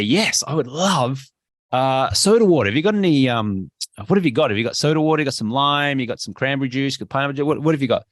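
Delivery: bright, eager order at the bar; confident cheerful ask. Shown as a demonstration. Friend at the bar confidently orders soda water, eager. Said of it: "you smile and you confidently say".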